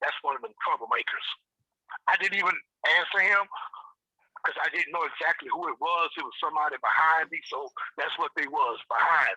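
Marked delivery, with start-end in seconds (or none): 0.0-1.3 soft, breathy whisper. Retelling what someone behind them in a store said: imitating a whisper. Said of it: "kinda whispered".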